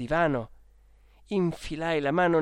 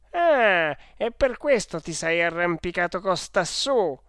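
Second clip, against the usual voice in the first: scolding; 3 semitones higher, 6 dB louder than usual. Acted. Guardian hearing the boy's excuse, scolding. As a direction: pounce on the feeble excuse.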